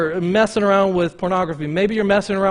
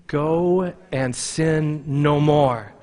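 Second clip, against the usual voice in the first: slow, measured reading in unison; congregation reading; 2 semitones lower, much slower than usual. Real, not acted. Pastor leading the church in reading scripture, slow and measured. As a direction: read it slowly together. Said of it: "Guys, read it with me".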